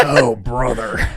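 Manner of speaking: slow, drawn-out exasperation; mock fed-up groan; exasperated.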